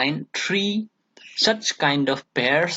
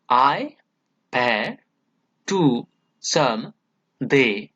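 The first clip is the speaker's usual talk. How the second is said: "I", "pair", "to", "some", "they", each set apart as its own stressed beat; stressed syllables picked out; much slower than usual. Shown as a demonstration. Teacher picking out a sonnet's stresses, "I pair to some they" each stressed. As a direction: give "I pair to some they" separate, weighted beats with pauses between. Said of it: "syllables are given importance".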